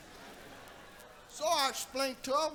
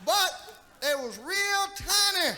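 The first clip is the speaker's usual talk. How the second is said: laughing punchline; 5 semitones higher than usual. Real, not acted. Punchline about tiny feet.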